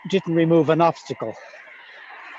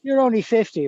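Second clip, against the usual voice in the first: said louder so they hear; raised voice, repeating clearly; 7 semitones higher, 3 dB louder than usual. Real, not acted.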